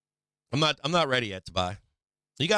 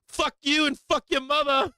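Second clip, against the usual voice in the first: mock furious comeback; 12 semitones higher than usual. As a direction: hurl it back like an offended Boston local. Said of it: "She's like".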